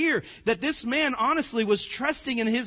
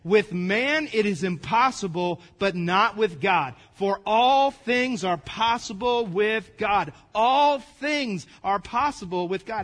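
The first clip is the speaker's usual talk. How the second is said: slow, measured scripture reading; emphatic, unhurried verse recital; leading group reading; 4 dB louder, slower than usual. Real, not acted. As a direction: lead the congregation word by word, firmly. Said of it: "let's all read this together".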